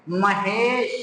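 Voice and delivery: महेश with the e drawn out long; महेश said slowly with a long e; stretched e vowel. Shown as a demonstration. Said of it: "खींच कर पढ़ेंगे".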